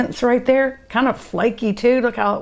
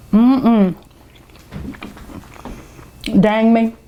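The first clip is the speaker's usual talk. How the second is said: excited; 3 dB louder, slower than usual. Real, not acted. Delighted tasting.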